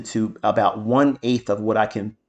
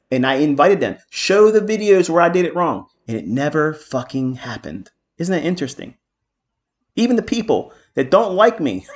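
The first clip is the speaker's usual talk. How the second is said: raised, higher-pitched defiant rant; defiant challenge; 5 semitones higher, 4 dB louder than usual. Real, not acted. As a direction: challenge the doubters, pushing the key words. Defiant rant against his doubters.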